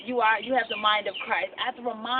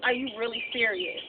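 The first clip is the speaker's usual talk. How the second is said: shocked disbelief. Retold or imitated. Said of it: "I was like".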